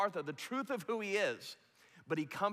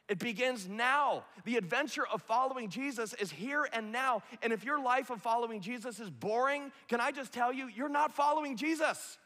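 rising preaching fervour; 5 semitones higher than usual. Real, not acted. Sermon climax building.

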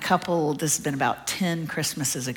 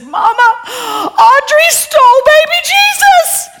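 put-on high, loud, wailing child's cry; hammed-up crying child, much higher and louder; crying little girl; 16 dB louder, slower than usual. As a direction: wail it like a sobbing five-year-old. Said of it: "just screaming, crying".

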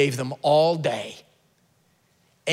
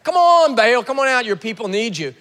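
high, loud jeering banter; mock them like a heckler at the door; preacher voicing Elijah's loud mockery of Baal; mocking taunt; 6 semitones higher, 4 dB louder than usual. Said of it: "Elijah's just mocking him".

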